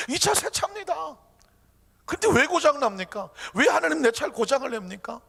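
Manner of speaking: high-pitched indignant protest; arguing complaint. Acted. Believer arguing with God over a broken new car, indignant. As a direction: demand answers, aggrieved. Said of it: "하나님한테 따졌습니다".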